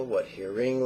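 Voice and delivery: what hearing tossed off quickly in passing; quick demo cue. Shown as a demonstration. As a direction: say what hearing briskly, no pause. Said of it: "Obviously, you don't go that fast".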